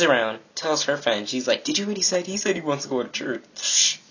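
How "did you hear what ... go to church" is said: imitated scoffing. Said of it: "scoffs, like".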